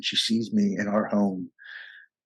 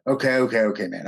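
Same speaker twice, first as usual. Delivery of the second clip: brushing him off. Retold or imitated. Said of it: "just kind of agreeing with him so I can hang up".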